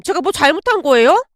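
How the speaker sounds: mildly defensive question; a touch of indignant innocence; wounded protest. Acted. Daughter-in-law questioning angry mother-in-law, mildly defensive.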